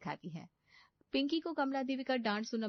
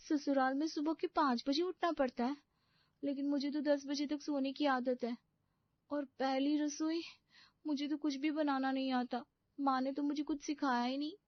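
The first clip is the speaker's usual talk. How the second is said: put-on higher, girlish bride's voice, dismayed; a pampered young bride panicking to herself; young bride's voice, dismayed at waking early; naive young bride; 8 semitones higher than usual.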